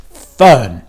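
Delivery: a sharp, loud snap of the name; snapping. A narrator's reading. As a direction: cut her off sharply. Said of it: "snapped her mother".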